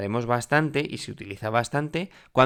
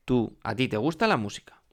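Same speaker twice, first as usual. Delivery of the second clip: "te gusta la música" stated with a falling end; affirmative statement intonation. Shown as a demonstration. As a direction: let "música" drop like a full stop. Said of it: "Y afirmo, y ya está". (afirmación, bajando al final en "música")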